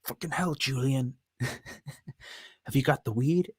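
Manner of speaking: mock boozy trailer park supervisor, slow and drawn out; Trailer Park Boys character. Streamer quoting a Trailer Park Boys scene, mock drunk voice. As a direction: ham up a sloppy drunk scolding Julian, slow. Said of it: "He's a good character".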